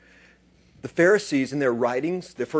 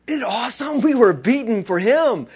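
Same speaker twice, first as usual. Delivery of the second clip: higher and louder, overjoyed; joyful exclaim; 9 semitones higher, 7 dB louder than usual. Retold or imitated. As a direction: apostles rejoice after the beating. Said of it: "They went out and said".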